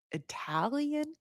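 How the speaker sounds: the word Italian said in a soft, slow Italian accent; mock Italian accent. Shown as a demonstration. Vlogger shows her accent slipping into Italian, soft mock Italian. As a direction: slip into a hammed-up Italian accent on Italian. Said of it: "it comes out like".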